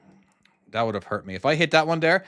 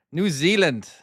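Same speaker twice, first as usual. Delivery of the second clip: a real burst of excitement, higher pitch; excited; 5 semitones higher, 4 dB louder, slower than usual. Real, not acted. Streamer spotting a viewer from New Zealand, excited. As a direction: blurt it out, excited and raised. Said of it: "Got excited with New Zealand".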